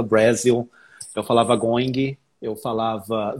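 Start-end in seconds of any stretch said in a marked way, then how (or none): 0.0-0.7 put-on "Brasil" said the learner's old wrong way; mispronounced English word. Shown as a demonstration. Learner recalls his own past mistakes, mispronounced "Brasil". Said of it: "E eu falava errado". 1.6-2.2 "going" with a hard g sounded and an extra ee at the end; mispronounced English word. Shown as a demonstration. Learner recalls his old mistake, mispronounced "going". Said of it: "E eu falava errado".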